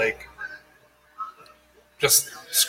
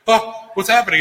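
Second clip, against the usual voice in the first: higher-pitched startled question; mock freaking out; 8 semitones higher than usual. Nervous flyer asks seatmate at liftoff, mock freaking out. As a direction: retell a nervous first-timer's alarm. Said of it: "Like, I'm freaking out".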